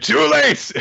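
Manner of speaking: loud, very high gleeful cry; mock villain shout. Warden answers the panicking crowd as he shoots, gloating. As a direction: shout it like a hammy cartoon villain.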